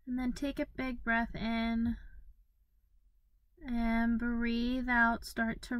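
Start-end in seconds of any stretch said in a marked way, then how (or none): 3.7-5.2 drawn-out words pacing an exhale; slow breathing cue. Acted. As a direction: stretch it to the length of an outgoing breath.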